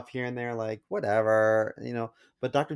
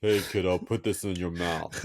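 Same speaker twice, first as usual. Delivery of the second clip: creepy voice; 4 semitones lower than usual. Pretend. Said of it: "Like that".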